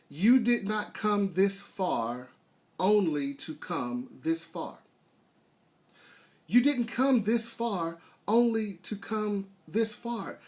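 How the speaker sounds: slow, measured, emphatic delivery; emphatic saying. Real, not acted. Speaker gives listeners the saying of the day, slow and emphatic. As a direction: deliver it slowly as a motto, pausing between phrases.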